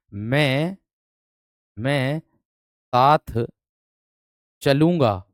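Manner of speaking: drawn out word by word, मैं साथ चलूंगा; slow dictation. Shown as a demonstration. Teacher dictating slowly to students. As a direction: read it out slowly for pupils to write. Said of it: "reads dictation slowly".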